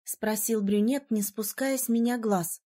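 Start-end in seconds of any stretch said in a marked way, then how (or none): none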